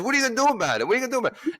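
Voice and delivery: imitated angry woman's challenge; challenging. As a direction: dare him twice. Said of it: "first she says".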